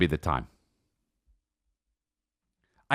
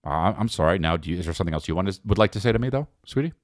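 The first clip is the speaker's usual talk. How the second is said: low, quick passive-aggressive sorry; passive-aggressive apology; 6 semitones lower, faster than usual. Shown as a demonstration. His usual apology to his wife, low and clipped. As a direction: apologize while demanding one back. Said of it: "That's me when I apologize".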